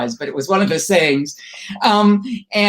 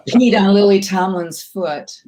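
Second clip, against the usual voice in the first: slow, amused punchline through laughter; laughing confession; slower than usual. Real, not acted. Guest confesses her dog's accident to host, laughing. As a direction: deliver the punchline while chuckling. Laughing at own dog anecdote.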